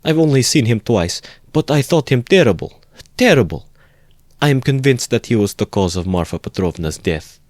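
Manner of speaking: she's still shaken just remembering him; mother recounts her dread of him, fearful. Acted. Frightened mother describes the man.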